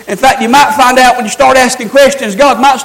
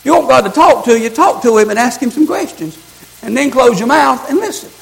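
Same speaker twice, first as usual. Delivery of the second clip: much softer, drawn close and intimate; quiet earnest preaching; 5 dB quieter than usual. Acted. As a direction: bring them in close, softly. Softer intimate sermon stretch.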